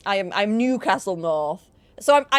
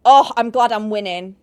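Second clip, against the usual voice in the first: loud exclaim; 9 dB louder than usual. Real, not acted. Exclaims then repeats calmly.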